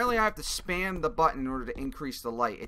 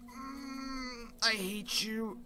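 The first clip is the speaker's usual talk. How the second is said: high, soft scared whine; whimpering gamer; 9 semitones higher, 6 dB quieter, slower than usual. Real, not acted. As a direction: whimper in dread at the monster. Whimpering at the monster.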